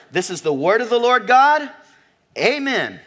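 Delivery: proclaimed high and loud; congregational confession. Shown as a demonstration. Pastor modelling the congregation's response, proclaimed loud. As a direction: declare it like a creed for all to repeat. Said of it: "what's our good confession".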